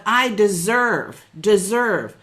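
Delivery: "I deserve, deserve" drawn out slow and firm; slow affirmation. Shown as a demonstration. Coach modeling a self-worth affirmation, slow and firm. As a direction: say "deserve" slowly like a mantra. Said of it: "own that conversation of".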